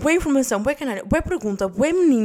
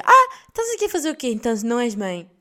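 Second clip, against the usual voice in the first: miúdos curiosos a perguntar; 4 dB louder than usual. Retold or imitated. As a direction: imitate a nosy kid, lightly. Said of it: "ficam a olhar para mim, tipo". (imitação de criança curiosa, em tom alto)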